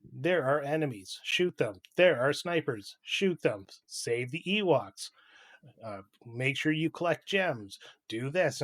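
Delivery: imitation of a robot giving orders; mock robot voice. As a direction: do a mild robot tutorial voice, evenly spaced phrases. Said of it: "it does this robot voice".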